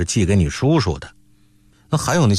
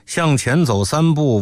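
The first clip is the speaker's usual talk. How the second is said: usual speaking voice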